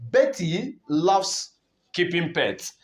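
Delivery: slow "Betty loves", "loves" drawn out before a pause; stress on loves. Shown as a demonstration. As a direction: read it slowly, setting "loves" apart. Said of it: "So emphasis is on loves".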